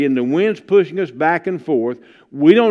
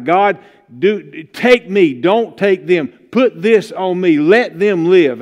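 pleading prayer; slower than usual. Retold or imitated. Parent by a dying child's bed, begging God in a slow plea.

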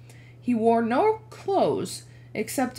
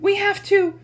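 faltering voice; 11 semitones higher, 6 dB louder than usual. Acted. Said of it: "Her voice faltered".

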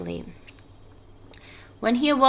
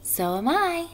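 high voice swooping upward; tiny voice; 10 semitones higher than usual. A narrator's reading. Second little spider chimes in, tiny high voice. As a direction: pipe up small and high. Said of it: "said another tiny voice".

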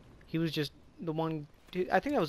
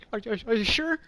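high-pitched mock anxious stammer; nervous stuttering; 7 semitones higher, 4 dB louder than usual. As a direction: stutter into a worried question. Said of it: "stuttering and, like, shaking again".

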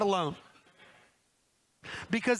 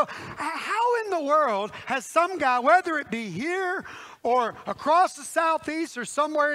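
raised-pitch mock disbelief; animated, incredulous appeal; baffled exasperation; 5 semitones higher, 3 dB louder than usual. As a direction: ask it in comic bewilderment. Baffled question about single men.

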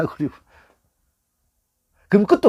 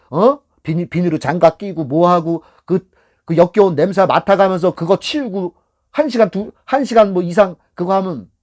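angry retort; 4 dB louder than usual. Retold or imitated. Acted retort to rude passenger.

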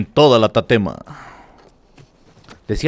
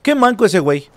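raging gamer; 5 semitones higher than usual. Real, not acted. Trash-talking enemies in game.

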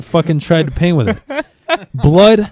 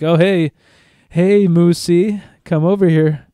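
drawn-out, higher coaxing call; 4 semitones higher, slower than usual. Acted. Farmer calling Moosey the cow back, mock coaxing. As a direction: lure an animal over, slowly.

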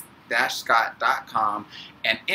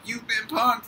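much higher mock announcer shout, louder; Ashton Kutcher; 13 semitones higher, 4 dB louder, slower than usual. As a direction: pop out like a prank show host yelling the reveal. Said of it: "Ashton Kutcher was gonna come out".

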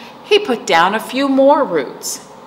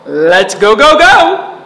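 loud rising cheer; 8 dB louder than usual. A narrator's reading. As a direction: cheer the squirrel on. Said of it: "Acorn cheered".

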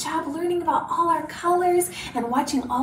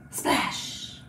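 hushed, voiceless splash; whispered splash; 7 dB quieter than usual. Pretend. Teacher dunking a kitty in paint for children, whispered. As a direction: whisper it like a little sound effect.

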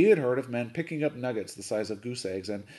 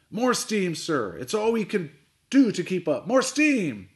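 shouting down the voice tube, much louder; bellowed order; 8 semitones higher, 7 dB louder, slower than usual. A narrator's reading. Captain bellowing down the tube to the engine room, loud shout. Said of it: "bellowed to the engine room below".

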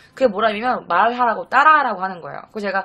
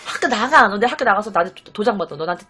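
nagging scold. Retold or imitated. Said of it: "막 이러면서 내가 엄청 잔소리를 했었거든요".

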